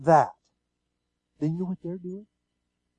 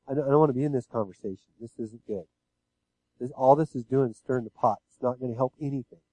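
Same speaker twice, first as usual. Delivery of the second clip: gentle refusal; 5 semitones lower, 4 dB quieter than usual. Shown as a demonstration. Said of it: "You can say it very gently".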